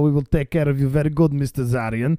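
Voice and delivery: put-on hammy Russian accent; lightly put-on Russian accent. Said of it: "I can only do a Russian accent".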